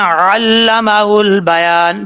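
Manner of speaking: علمہ البیان read slowly with a blurred یا in البیان; wrong reading. Shown as a demonstration. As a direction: show the mistake, slurring بیان. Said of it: "ایسا نہیں کرنا". (غلط تلفظ، یا واضح نہیں)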